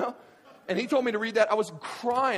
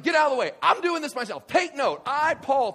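high, loud, impatient orders; shouted impression of a worked-up apostle; fired up; 11 semitones higher, 10 dB louder than usual. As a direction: act out Paul seizing the pen. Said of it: "he's getting so fired up".

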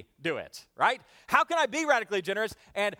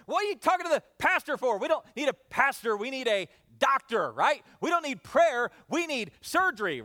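furious wife; 4 semitones higher than usual. Retold or imitated. Wife berating husband on the phone, mock furious. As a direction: scold him like a furious wife. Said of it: "absolutely furious".

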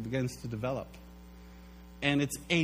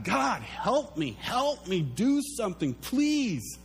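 slow, higher pleading to God; pleading prayer; 5 semitones higher, slower than usual. Pretend. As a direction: beg God for help, drawn out.

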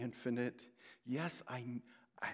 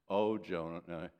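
sarcastic; 6 semitones lower than usual. Real, not acted. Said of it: "Sarcasm implied".

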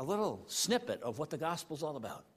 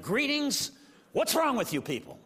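exasperated Paul; 6 semitones higher than usual. Retold or imitated. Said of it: "he's just, like, ballistic".

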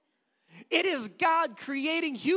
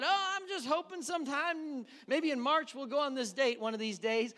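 vague hoping; 4 semitones higher than usual. Retold or imitated. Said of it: "If, if we just said".

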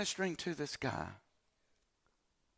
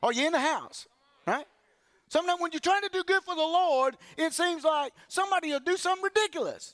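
rising preacher voice, higher and louder; preaching; 12 semitones higher, 5 dB louder than usual. Real, not acted. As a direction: build the congregation up, preaching hard. Preaching at full force.

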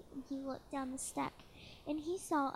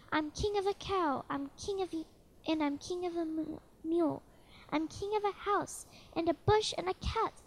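higher, louder booming boast; thundering royal voice; 3 semitones higher, 4 dB louder than usual. Acted. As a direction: boom each line like a proud tyrant. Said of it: "his royal voice thundered".

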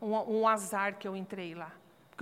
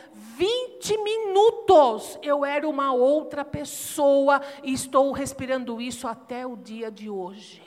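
louder, higher preaching, building to a cry; preaching at full force; 6 semitones higher, 11 dB louder than usual. Acted. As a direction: pregar com toda a força, subindo o tom até clamar. (pregação inflamada, em voz alta e aguda)

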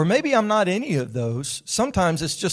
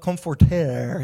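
drawn-out mock French pronunciation; nasty French accent; 3 dB louder, slower than usual. Shown as a demonstration. Preacher showing congregation an Old French word, nasty French accent. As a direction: put on an exaggerated French accent, slowly. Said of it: "say it with your nasty French accent".

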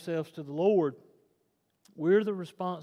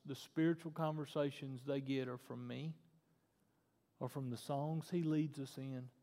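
much softer, lower preaching voice; sober warning; 4 semitones lower, 8 dB quieter than usual. Real, not acted. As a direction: drop to a hushed, measured caution.

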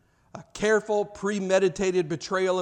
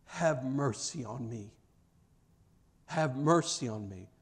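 quiet plea; 5 semitones lower, 7 dB quieter than usual. Retold or imitated. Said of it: "crying out to God".

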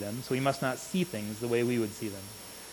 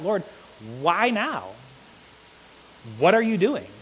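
pleading cry, higher and louder; crying out to God; 3 semitones higher, 5 dB louder than usual. Retold or imitated. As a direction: cry out to the Lord in despair. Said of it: "where you just cry out".

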